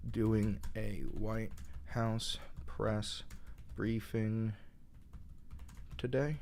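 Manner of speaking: slow, soft whisper as he types; murmured query. Real, not acted. Streamer reading his ChatGPT query aloud, whispered. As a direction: mouth the question to yourself.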